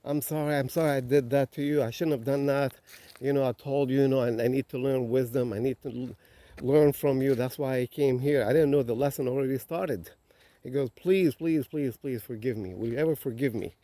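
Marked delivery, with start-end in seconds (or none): 0.0-10.1 mildly frantic retold apology, slightly raised pitch; pleading apology. Young samurai kneels to the wise man, pleading apology. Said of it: "he asks for forgiveness". 10.9-13.7 begging forgiveness. Retold or imitated. Kneeling samurai to the old master, begging forgiveness. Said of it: "he asks for forgiveness".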